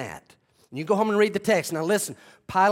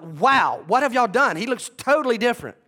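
shocked crowd; 7 semitones higher, 6 dB louder than usual. Retold or imitated.

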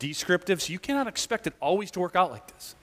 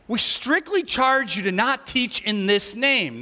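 stern slow priest; 6 semitones higher than usual. Retold or imitated.

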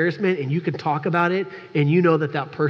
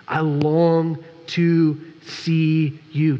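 sincere; much slower than usual. Acted. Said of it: "Timothy longed for Paul".

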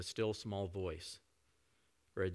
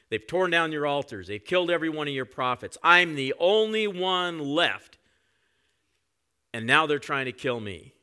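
louder, higher, self-pitying whine; whining complaint; 5 semitones higher, 9 dB louder than usual. Retold or imitated. Elijah whining to God about being alone, louder and higher. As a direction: moan that you're the only one left. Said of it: "He starts whining".

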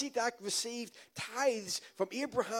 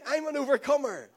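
louder, firm declaration of "I'm an overcomer"; said like you mean it; 5 dB louder than usual. Shown as a demonstration. Preacher leading the church, loud confident confession. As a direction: proclaim "I'm an overcomer" with conviction. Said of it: "Say it like you mean it".

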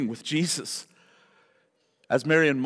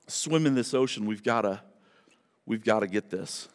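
quiet; 9 semitones lower, 7 dB quieter than usual. Real, not acted. Drops to intimate aside.

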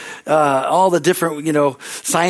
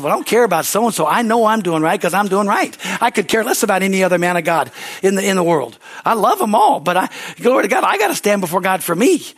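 emphatic reply; 4 semitones higher than usual. Retold or imitated.

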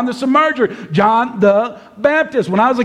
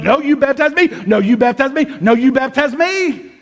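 mock back-and-forth argument, slightly raised pitch; playful bickering; 4 semitones higher than usual. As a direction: insist right back, like a friendly squabble. Acted back-and-forth quarrel over baptizing.

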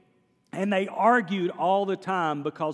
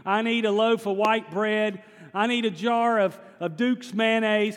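loud praying; 3 semitones higher than usual. Retold or imitated. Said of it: "she starts praying really loud".

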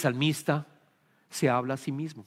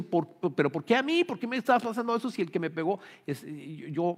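put-on protesting child. Punished child protesting to a parent, mildly aggrieved. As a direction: rush the complaint like a wronged child, lightly. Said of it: "el otro dice".

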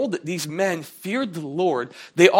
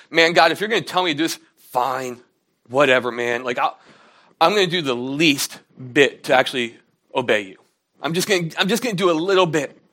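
sulky, reluctant whatever-man grumble; grudging complaint. Retold or imitated. Reluctant Jonah, answering God's command, gives a mild sulky grumble. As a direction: mildly grumble like a teen forced to obey. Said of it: "Jonah is still not happy with this".

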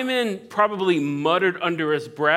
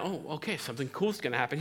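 excited host; 6 dB quieter, faster than usual. Retold or imitated. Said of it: "you kinda".

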